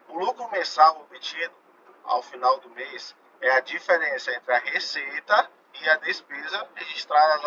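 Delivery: measured read-out, key words drawn out; reading aloud to class. Real, not acted. Teacher reading an exam question to students, deliberate read-out.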